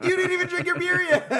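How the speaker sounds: high, loud, laughing mock protest; laughing retort. Friends ribbing the one drunk at eleven thirty, laughing retort. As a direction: call him out through helpless laughter.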